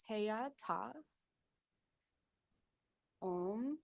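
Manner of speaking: syllable by syllable, slow; staccato. Shown as a demonstration. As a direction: sound out each syllable. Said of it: "do it syllable by syllable first".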